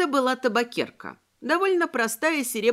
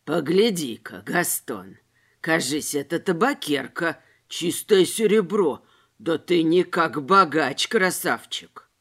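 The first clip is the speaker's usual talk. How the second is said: greedy tramp; 5 semitones lower, 3 dB louder than usual. A narrator's reading. Tramp admires silver snuffbox.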